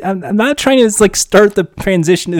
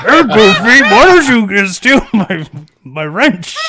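Pete impression. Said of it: "your fingers are in your mouth".

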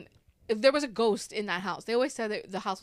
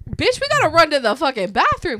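loud, higher-pitched acted alarm; retold urgent yell; 5 semitones higher, 10 dB louder than usual. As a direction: shout the order to run, as in a storyteller's reenactment. Retold urgent order to flee.

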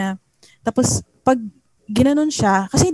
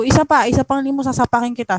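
mildly raised voice, imitating a warning; retold loud threat; 3 semitones higher than usual. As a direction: retell the threat with a little push. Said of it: "Sabi ko nung ganun malakas". (ikinukuwentong pagbabanta, medyo malakas)

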